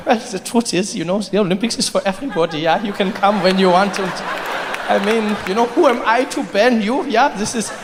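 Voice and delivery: put-on nervously placating official with a German accent; backpedalling official. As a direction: backtrack hastily as the cowed committee spokesman. Committee backpedals to the Russians.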